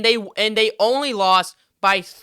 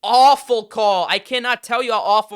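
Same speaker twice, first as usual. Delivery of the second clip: exasperated fan venting at the refs; angry outburst; 6 dB louder than usual. Real, not acted. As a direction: slam the call hard. Ranting at the referee's call.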